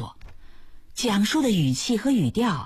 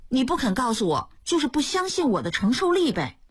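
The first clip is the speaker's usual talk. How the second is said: pitched-up complaint of a hurt wife; higher wife's voice, reproachful; 6 semitones higher than usual. A narrator's reading. Wife scolding her husband for hiding things, higher and reproachful. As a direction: sulk at him in a raised voice.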